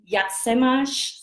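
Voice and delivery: slow, careful "Jak se masz?"; Czech phrase demo. Shown as a demonstration. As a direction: model "Jak se masz?" slowly in Czech, lifting the pitch. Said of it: "if you wanna know".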